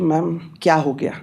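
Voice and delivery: soft, sugary question to the teacher; softly polite "ma'am क्या हो गया?"; sweetly polite. Retold or imitated. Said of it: "teacher से प्यार से पूछ दिया".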